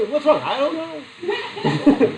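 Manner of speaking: high, laughing, drawn-out "I don't know"; mock weepy pregnant woman. Lecturer imitating a weepy pregnant wife for the class. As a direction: play the teary wife who can't say why.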